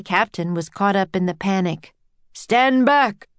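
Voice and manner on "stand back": raised commanding shout. A narrator's reading. Panicked captain warning the crowd, shouting. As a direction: order everyone back, voice pitched up. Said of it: "he shouted".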